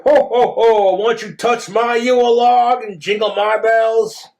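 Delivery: hammed-up jolly Santa ho-ho; playful Santa innuendo; mock Santa. Toilet voiced as flirty Santa.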